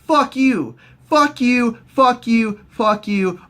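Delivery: high, punchy repeated dismissals; mock angry retort. Accusers cut Baelish off.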